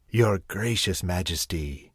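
soft purring cat voice. Acted. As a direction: purr the welcome to the king. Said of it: "he purred".

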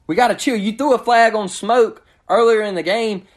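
high, loud exasperated rant; heated rant. Real, not acted. Host ranting at refs about targeting flags, exasperated and loud. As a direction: vent at the refs with rising pitch.

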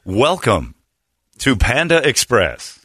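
put-on deliberately inauthentic Japanese accent; mock Japanese accent. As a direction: greet in a badly faked Japanese accent. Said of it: "can you do a Japanese accent?".

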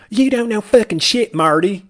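hammed-up shout at Marty; a rough mock shout aimed at Marty; Ozark character yelling.

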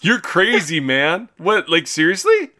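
distorted mic sound; warped slowed-down mic voice; voice changer. Real, not acted. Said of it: "Are you not still doing the voice?".

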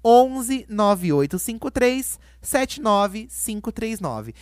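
loud first, then slow, digit by digit; TV host repeating a number. Retold or imitated. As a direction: announce each digit like a TV host. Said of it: "Vou repetir igual a Eliana fazia nos programas dela".

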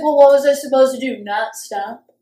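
loud mock-angry comeback, then easing off; mad retort. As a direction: imitate a defensive boyfriend snapping back. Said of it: "he got mad at me".

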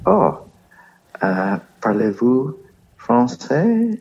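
high, hammed-up French accent. Asking the French boy if he speaks French, French accent. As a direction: put on a silly French lilt. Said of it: "Just throwing a little French accent on it".

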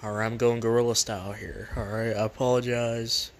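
built-in laptop mic sound; recorded without a proper mic; bad mic quality. Real, not acted. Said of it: "sorry for the bad mic quality".

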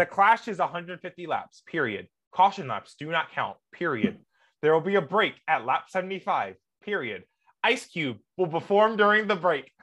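emphatic readout, "period" falling flatly after each rule; reading out punctuation. Retold or imitated. Podcaster reads the sports notes, "period" spoken as a dropped full stop. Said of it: "I said it how I read".

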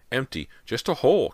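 ordinary delivery

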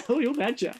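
playful Midwestern "Oh, you betcha"; mock Minnesotan. Laughing at herself, mock Minnesotan accent. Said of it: "Me when I moved to Minnesota".

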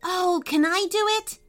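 put-on eager child's plea, pitched high; bubbling with excitement, high voice; excited. A narrator's reading. M J begs to talk to the car, excited. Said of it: "asked M J excitedly".

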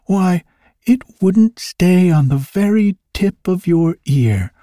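lightly indignant elf setting her straight; indignant little elf. A narrator's reading. Elf character's long reply.

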